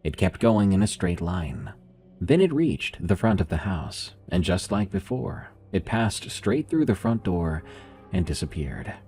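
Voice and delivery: steady, grave storytelling voice; story narration. A narrator's reading. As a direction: read it like a creepy tale.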